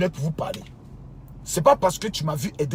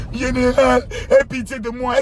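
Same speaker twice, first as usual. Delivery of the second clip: mock pleading follower; 5 semitones higher, slower than usual. Imite un fidèle pleurnichant.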